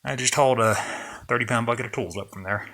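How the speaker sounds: catching breath while talking. Real, not acted. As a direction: still winded from hauling. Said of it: "I guess I'm out of breath".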